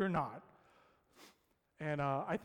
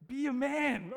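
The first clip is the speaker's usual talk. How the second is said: higher, louder mock command; exasperated outburst; 9 semitones higher, 6 dB louder than usual. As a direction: tell him off in your head. Inner scolding of scared neighbor.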